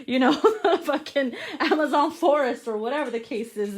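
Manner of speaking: laughing. Real, not acted. Laughs at own crude joke.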